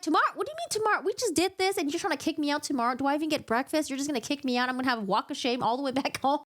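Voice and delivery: high, indignant disbelief; hammed-up shocked girlfriend; mock outrage. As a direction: squeal it like she's offended. Feyre outraged at being sent away.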